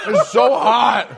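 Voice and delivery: mouth burning from spicy food. Real, not acted. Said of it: "My mouth is on fire".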